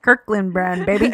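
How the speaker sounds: chewing chips while talking; crunching chips. Real, not acted. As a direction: mouth full of crunchy chips. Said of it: "Can you hear me crunching?".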